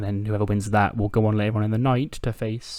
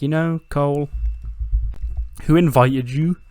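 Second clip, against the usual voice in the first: Christian's voice; 5 semitones higher, 4 dB louder than usual. Retold or imitated. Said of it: "he's like".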